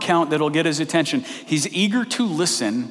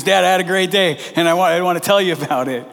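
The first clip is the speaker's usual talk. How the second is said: put-on happy child; 3 semitones higher, 4 dB louder, faster than usual. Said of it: "She's happy and says".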